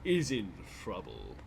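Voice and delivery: slow gloating villain voice; unhinged villain. Pretend. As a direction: savour every word like a villain. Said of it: "do an evil laugh about how many advantages you have".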